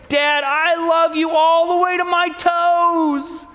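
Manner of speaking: high, eager little bunny voice, drawn out; a small child proudly topping his dad; lightly voiced baby bunny boasting.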